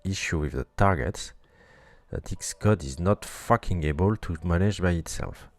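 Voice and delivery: pissed-off rant. Real, not acted. Coder explaining the Xcode bug to viewers, loud angry rant. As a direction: vent the fury at the screen. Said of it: "Sorry, I'm pissed off".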